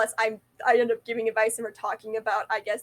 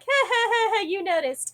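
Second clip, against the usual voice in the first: hammed-up awkward laugh; mock laugh; 9 semitones higher than usual. Caught staring by schoolmates, answering with a mock laugh. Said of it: "And I'll be like".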